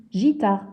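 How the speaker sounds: gitare with a soft J sound, like girafe; wrong soft g. Shown as a demonstration. Teacher shows the misreading without the U, soft J sound. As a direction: say gitare with a soft French J at the start. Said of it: "on lirait je".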